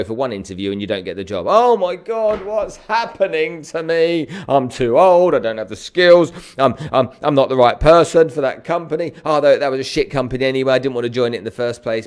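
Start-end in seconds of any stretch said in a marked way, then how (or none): 1.5-12.1 panicked rant. Retold or imitated. Acting a panicked job-seeker rant.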